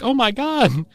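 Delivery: high-pitched retold "oh my God" reaction; retold astonishment. Learning her own family's history, retold astonishment. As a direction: recall being astonished, voice jumping up. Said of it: "So I was like".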